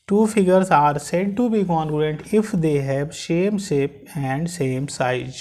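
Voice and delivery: slow, word-by-word dictation for notes; teacher dictating at a crawl. Shown as a demonstration. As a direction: dictate slowly so students can write. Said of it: "लिख लीजिए, note करिए".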